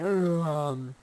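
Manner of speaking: half-asleep reply to bad news; sleepy brush-off. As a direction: shrug it off and drift back to sleep. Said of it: "and you yawn".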